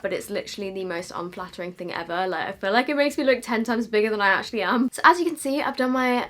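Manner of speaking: slight lisp from a retainer; wearing a retainer. Real, not acted. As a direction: talk around a dental retainer. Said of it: "I'm sounding a little bit lispy again because I've got my retainer back in".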